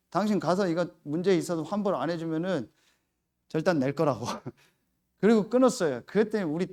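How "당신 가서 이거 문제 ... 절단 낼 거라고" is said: threatening. Retold or imitated. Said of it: "전화기에다 내가 뭐라고 했어요".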